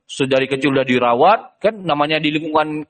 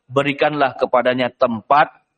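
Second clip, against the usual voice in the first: slow, lower, calm request; gentle instruction; 4 semitones lower than usual. Acted. Official tells his wife to care for the boy, slow and gentle. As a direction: ask it gently and slowly. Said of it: "mengatakan kepada istrinya".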